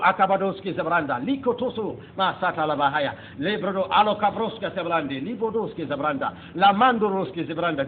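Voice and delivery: speaking in tongues. Retold or imitated. Preacher reenacting his tongues to the congregation, fervent and flowing. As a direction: pour out unknown words as if seized by the Spirit. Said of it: "I cannot stop the words".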